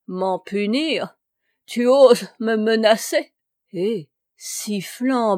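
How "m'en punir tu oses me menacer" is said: outraged, voice rising loud; furious retort. A narrator's reading. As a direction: spit it back in fury. Rageuse furieuse répond. (colère indignée)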